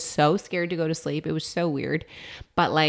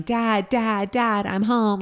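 put-on kid yelling; 5 semitones higher, much slower than usual. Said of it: "while yelling".

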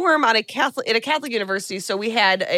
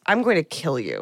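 lower, matter-of-fact death threat; dropped normal voice; 5 semitones lower than usual. Retold or imitated. Caller threatening Barb before hanging up, in a dropped normal voice. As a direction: let the voice drop to an ordinary man's. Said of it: "voice drops into a normal man's voice".

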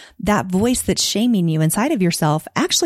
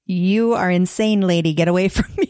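incredulous client. Retold or imitated. Client telling the organizer she's crazy, mock incredulous. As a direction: playfully imitate someone backing away from a crazy idea. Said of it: "deer in the headlights look of".

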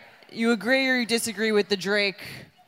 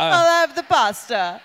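slow mock Italian accent, laughing through it; playful put-on Italian accent; a hint of Italian accent, slowed; 2 semitones higher, slower than usual. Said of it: "orders food in that restaurant's origins accent".

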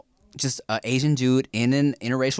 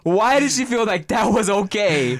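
slow, higher, drawn-out mock outrage; retold disbelief; 7 semitones higher, 4 dB louder than usual. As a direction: stretch each word in baffled disbelief. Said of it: "afterwards, we were like".

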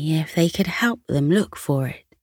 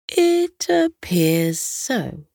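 smiling king; slower than usual. Acted. The king telling Hector he can understand him, lightly smiling. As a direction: let a smile sit in the king's slow words. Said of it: "Still smiling, the king said".

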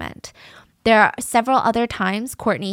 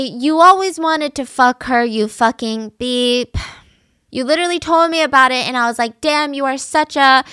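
mock yelling; 4 semitones higher, 5 dB louder than usual. The girlfriend accusing Christian of wanting her friend, yelling. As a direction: hurl the accusation at him. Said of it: "she goes on to say".

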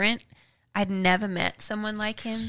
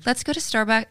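American accent attempt. Shown as a demonstration. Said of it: "you need to give me a line".

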